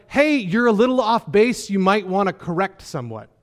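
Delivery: high, breezy gentle nudge; mock mild correction. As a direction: pretend to let them off lightly.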